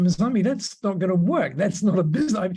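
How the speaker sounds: retold protest. Mentor tells mentee it won't work, protesting. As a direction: object in mock disbelief, rattling it off. Mentor retells his objection to her.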